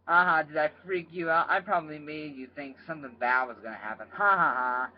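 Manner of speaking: playful, laughing at the listeners; teasing laugh. Real, not acted. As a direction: gloat with a little laugh. Teasing the listeners after the chapter.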